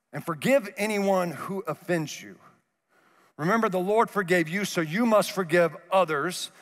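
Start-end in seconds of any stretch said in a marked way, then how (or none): none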